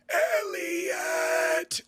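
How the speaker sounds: high, drawn-out strained cry; mock whisper shouted. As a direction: wail the name out, stretched long and high. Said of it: "I just quietly whisper".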